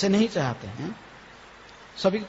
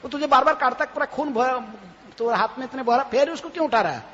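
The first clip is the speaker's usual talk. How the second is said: baffled onlookers; 4 semitones higher than usual. Retold or imitated. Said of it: "लोग बोलते थे".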